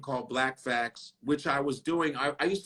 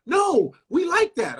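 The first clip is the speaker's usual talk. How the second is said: mock station boss; 13 semitones higher, 5 dB louder, slower than usual. Mocking station bosses' reply.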